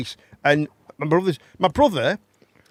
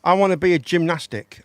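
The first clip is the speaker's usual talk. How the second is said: mocking quote; 5 dB louder than usual. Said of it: "I don't think you can".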